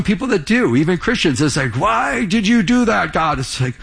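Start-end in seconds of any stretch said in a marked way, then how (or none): 1.8-3.4 higher-pitched imitation of a complainer; lightly acted protest to God; mock complaint. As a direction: mimic someone whining at heaven. Mimics Christians blaming God.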